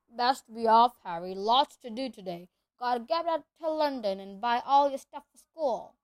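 big booming half-giant; rough country giant voice; gruff giant voice. Acted. Hagrid voice held.

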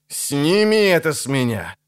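strained, growling demand; angry growl under strain. A narrator's reading. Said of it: "зарычал он".

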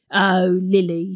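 mocking Beryl. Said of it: "Silly Lily is so patronising".

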